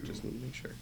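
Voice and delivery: whispered teasingly. Shown as a demonstration. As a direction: breathe it in a whisper. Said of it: "repeated line, then whispered".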